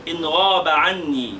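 slow, deliberate mnemonic line; slow dictation. Shown as a demonstration. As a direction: say it slowly so they can write it. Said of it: "اكتبوها". (إملاء بطيء للطلاب)

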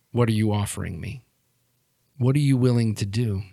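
measured, controlled interrogation; cold villain. Acted. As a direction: press them calmly, with pauses between demands. Game master plays cold villain.

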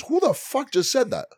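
high, slow indignant demand; G demanding who insulted him, high and slow; outraged friend. Retold or imitated. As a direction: play the offended big guy, drawn out and high. G's outraged quote in story.

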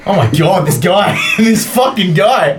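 laughing in disbelief; exasperated laugh. Real, not acted.

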